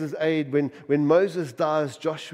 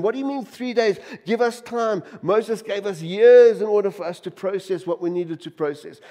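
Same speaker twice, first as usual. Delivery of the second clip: higher, indignant protest of the people; complaining crowd voice; 3 semitones higher, 4 dB louder than usual. Retold or imitated. The grumbling crowd protests to Joshua, higher and indignant. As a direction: whine at the new leader like a put-out crowd.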